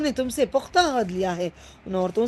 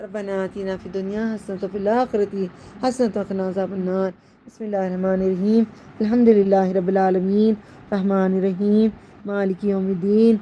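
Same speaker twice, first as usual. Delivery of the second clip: prayer recitation; 3 semitones lower than usual. Acted. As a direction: recite the closing prayers devoutly. Closing prayers and Fatiha recitation.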